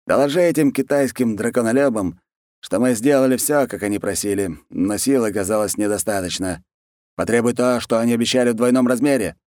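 scheming khan. Acted. Khan dictates demands to his allies, lightly voiced ruler.

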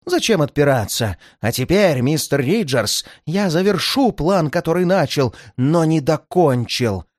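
медленно, с угрозой; наслаждайся угрозой; злорадная угроза. Acted. Злодей угрожает револьвером. (злодей медленно угрожает)

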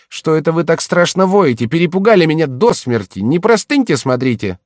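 высокий громкий голос слуги; встревоженно отчитай хозяина; встревоженный слуга. Acted. (встревоженный высокий голос слуги)

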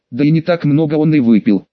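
usual speaking voice

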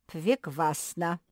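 slow, loud, with v in place of r; Пвеквасна said for Прекрасно, r and l turned to v; lisping r as v. A narrator's reading. Professor speaks with speech defect.

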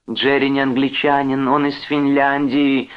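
high, urgent woman's cry. A narrator's reading. Wife tries preventing a clash, crying out. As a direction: call out to stop the fight. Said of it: "закричала Джон".

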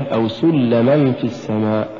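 سلما broken into two words, سل and لما; wrong split reading. Shown as a demonstration. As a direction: push سلما apart in "أو سلما في السماء". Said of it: "كأنها جعلتها كلمتين".

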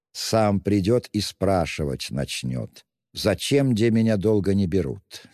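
lightly voiced sly investigator, insinuating; Porfiry, sly investigator. Investigator needling the suspect, lightly sly. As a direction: purr it out like a cunning detective.

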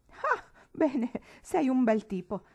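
mildly voiced jovial uncle; amused exclamation. A narrator's reading. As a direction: chuckle out approval at the boy. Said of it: "esclamò alla fine".

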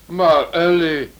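stunned at his wife's new look; astonished. Acted. Husband stunned by his wife's disguise, amazed. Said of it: "Dat is precies wat ik hebben wou".

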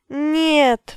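high, loud wail of despair. A narrator's reading. Abby wails at the wizard's refusal, loud despairing wail. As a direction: let the refusal break into a wail. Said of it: "взвыла Эбби".

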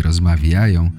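normal talking voice

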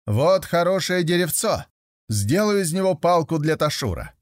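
high, loud call meant to be overheard; loudly. Acted. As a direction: say it loudly so the tree hears. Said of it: "говорит громко".

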